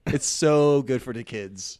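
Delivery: loud, drawn-out Jamaican lilt; Jamaican-sounding accent. Acted. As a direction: stretch it out like a Jamaican man. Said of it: "Apparently, I'm a Jamaican man".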